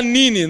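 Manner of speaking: put-on "Nini" with an initial N, as a toddler says it; child's mispronunciation. Dad quotes daughter's word for Minnie, "Nini", mispronounced. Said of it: "E ela fala Nini".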